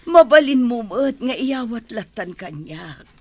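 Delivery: a wounded, near-crying protest; hurt protest. Acted. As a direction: plead through tears. Maid hurt by thrown clothes.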